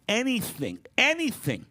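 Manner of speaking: ANYTHING high and loud, harder each time; emphatic repetition. Real, not acted. Jazz educator urging curiosity, "anything" cried out emphatically.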